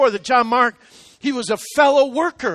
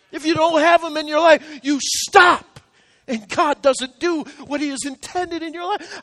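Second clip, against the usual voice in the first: raised pitch, emotional urgency; real choked-up feeling; 5 semitones higher than usual. Real, not acted. Pastor recalling the friends who saved him, choked-up urgency. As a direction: plead from the heart, close to crying. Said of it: "I could just cry about it now".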